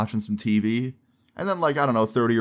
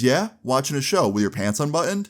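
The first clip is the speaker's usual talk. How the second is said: higher-pitched mock disbelief; retold disbelieving dad; 5 semitones higher than usual. Girlfriend's dad challenges the boyfriend's excuse, retold disbelief. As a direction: imitate a father who isn't buying the excuse.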